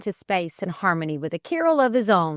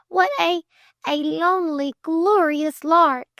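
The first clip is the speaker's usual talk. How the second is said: quivering delight; 9 semitones higher, 4 dB louder than usual. Acted. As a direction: savour every word with trembling joy. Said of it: "quivered Flame".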